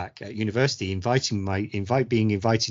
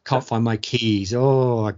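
mock whining customer; slower than usual. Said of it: "someone ranting about".

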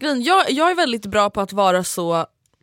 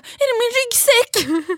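high, slow, squeaky mock question, much higher; imitating confused Anton; 4 dB louder, much slower than usual. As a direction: play a clueless guy hoping it's his bag. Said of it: "Och de bara".

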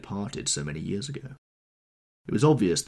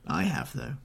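higher, leering bitter aside; sickly leer; 8 semitones higher than usual. Acted. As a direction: leer as you admit it. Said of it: "with a sickly leer".

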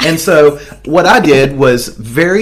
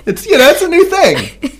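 mock casual; 13 semitones higher than usual. Pretend casual explanation, high.

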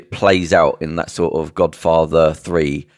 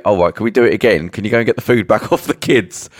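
mock cheery producer; 4 semitones higher than usual. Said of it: "But then they say".

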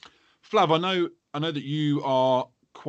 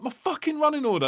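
high, hammed-up accusing whine; mock outrage. He rants at his missus about the running order, high and hammed-up. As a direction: accuse her in a squeaky mock rant. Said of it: "I was like".

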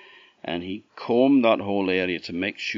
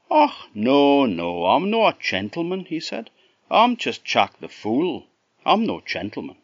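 Scots Jack; 8 semitones higher, 9 dB louder than usual. A narrator's reading.

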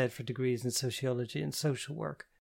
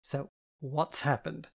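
sober; 3 semitones higher, slower than usual. Acted. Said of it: "Jen said more soberly".

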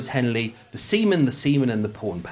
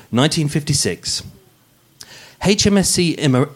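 dramatic true crime narration; podcast narration; 3 dB louder than usual. Acted. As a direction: read it like a crime podcast host. Narration in posh voice.

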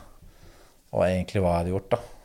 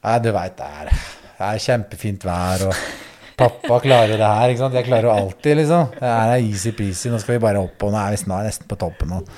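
crying reassurance; 2 semitones higher, 5 dB louder than usual. Retold or imitated. Father on satellite phone comforting daughter, choked cheerful crying. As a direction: sound brave for your daughter while crying. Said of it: "så gråter jeg da".

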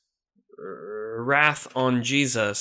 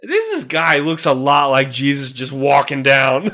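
loud, rushed report; jittery subdemon; 5 dB louder than usual. Acted. Subdemon reports the road to Emmaus, loud and jittery. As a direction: blurt the news nervously. Demon reports Jesus sighting.

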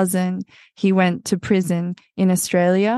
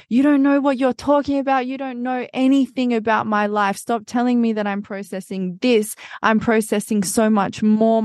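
heated, higher-pitched protest; retold angry outburst; 4 semitones higher than usual. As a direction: lash back at the therapist, voice starting high. Retold outburst at her psychologist.

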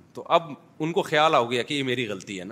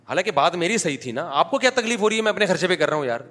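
higher, louder retold argument; raised angry voice; 5 semitones higher, 5 dB louder, faster than usual. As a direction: snap back at the relative, voice up. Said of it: "میری آواز بلند ہو گئی". (رشتہ دار سے بحث میں غصے سے اونچی آواز)

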